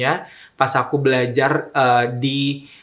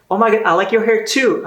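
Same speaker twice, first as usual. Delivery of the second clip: much higher, excited "oh my God" voice; gushing reply compliment; 8 semitones higher, 3 dB louder than usual. Retold or imitated. The other stranger answering the compliment, mock gushing. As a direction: gush right back at them.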